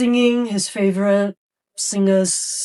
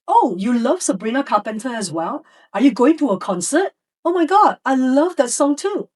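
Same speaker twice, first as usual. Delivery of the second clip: higher, eager fan talk with a squealed oh my God; enthusiastic teacher; 4 semitones higher than usual. Shown as a demonstration. Teacher bonding with the singing boy, excited. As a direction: gush with the student about the singer.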